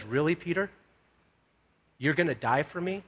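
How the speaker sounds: quiet doubt. Retold or imitated. Jesus doubts Peter's bold vow.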